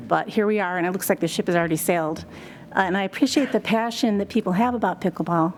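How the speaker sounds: nervous, trembling voice; shaky voice. Real, not acted. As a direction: voice shaking with nerves. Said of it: "sorry, my voice is shaking".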